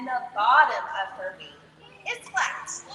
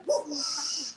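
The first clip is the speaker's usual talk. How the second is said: whoosh sound; 5 dB quieter than usual. Shown as a demonstration. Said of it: "can you guys do that with me".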